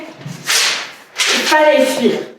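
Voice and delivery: slow, breathless whisper, barely voiced; whispered resolve. Alone, vowing to leave the queen, slow whisper. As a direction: breathe the words out as a secret decision.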